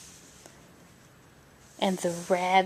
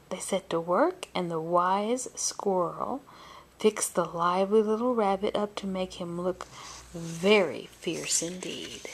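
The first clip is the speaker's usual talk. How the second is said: gentle bedtime storyteller, unhurried; storybook narration for little ones; story narration. A narrator's reading. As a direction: read it like a picture book to a child.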